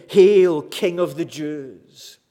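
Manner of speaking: mock salute, understated; a touch of ridicule in a called-out greeting; mockingly facetious cry. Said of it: "It was a mockingly facetious cry".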